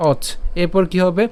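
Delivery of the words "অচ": "অচ" cut off at the ch; "অচ" as one closed syllable; syllable demonstration. Shown as a demonstration. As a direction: say "অচ", stopping on the চ. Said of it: "চকে উচ্চারণ করছি".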